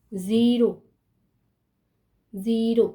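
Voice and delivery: ज़ीरो with a clear buzzing z; careful "zeero" on each ज़ीरो; z sound. Shown as a demonstration. Teacher points out the z, ज़ीरो with clear z. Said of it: "ज़ आ रहा है".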